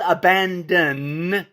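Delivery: "abandon" drawn out, ending on a clear N; final N sounded. Shown as a demonstration. Commentator clarifying a word for listeners, final N sounded in "abandon". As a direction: stretch "abandon" and land on the N. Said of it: "with an N".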